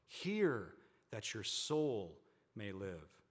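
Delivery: slow, weighty Bible reading; measured, emphatic reading from the pulpit; scripture reading. Acted. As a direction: proclaim it phrase by phrase, with long pauses. Reads scripture aloud to congregation.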